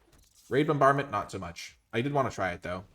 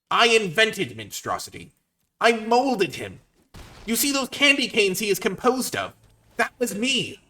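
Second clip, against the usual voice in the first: mock-villain taunt; 7 semitones higher, 3 dB louder than usual. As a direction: lord it over the opponent like a megalomaniac. Taunting opponent as creator.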